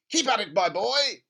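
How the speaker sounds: high, loud and gleeful; an overjoyed father egging his son on; giddy dad. Acted. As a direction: cheer the boy on while dancing. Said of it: "dancing around the kitchen".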